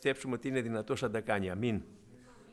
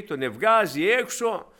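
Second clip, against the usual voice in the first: ordinary delivery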